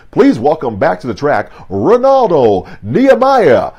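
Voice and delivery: lightly voiced track announcer, swelling at the end; stadium announcer. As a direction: hype the crowd like a meet announcer. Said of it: "that announcer's voice comes over".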